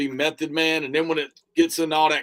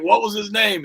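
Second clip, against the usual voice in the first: lightly acted question, raised in pitch; quoted movie line; 6 semitones higher, 4 dB louder than usual. Reminding the other of Fight Club, lightly acted higher question. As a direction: put a higher lift on the remembered question. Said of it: "remember when they were like".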